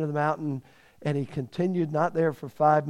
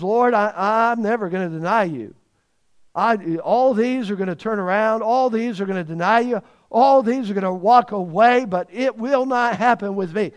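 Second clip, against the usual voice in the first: higher, louder, insistent Peter; Peter's boast to the Lord, emphatic and loud; 4 semitones higher, 5 dB louder than usual. Retold or imitated. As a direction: swear it loudly like a proud disciple. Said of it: "He was so emphatic about this".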